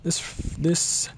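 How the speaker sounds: measured, formal elf mentor with deliberate emphasis; stately elven instructor giving a lesson; elf teacher. Acted. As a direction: lecture a pupil in a lightly voiced elf character. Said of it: "I should have just gone with Posh".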